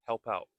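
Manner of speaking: help out with OUT ending in a held-back T; silent final T. Shown as a demonstration. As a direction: stop the T of OUT without releasing it. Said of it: "it is a more silent T".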